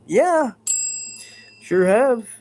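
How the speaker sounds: high, bright eager yeah; excited yes. Real, not acted. Streamer eagerly tells chat about a foodgasm. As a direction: jump in gleefully.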